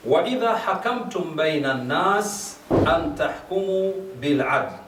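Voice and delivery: measured, intoned recitation of the Arabic verse; Quranic recitation. Acted. Imam reciting the verse to the gathering, intoned.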